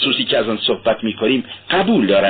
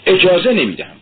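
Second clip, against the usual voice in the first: shout; 8 semitones higher than usual. A narrator's reading. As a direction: yell it, lips trembling, furious. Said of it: "به طوری که فریاد زد". (فریاد بلند و خشمگین)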